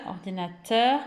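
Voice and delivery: ordinateur with "teur" set apart and rising; stress on final syllable. Shown as a demonstration. Teacher showing children the rhyme, final syllable stressed in ordinateur. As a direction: lean on the last "teur" of ordinateur. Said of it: "on entend à la fin la syllabe".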